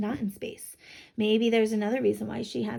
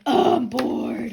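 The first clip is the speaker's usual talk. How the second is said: mock bored sigh; 6 dB louder, slower than usual. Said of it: "she's just like".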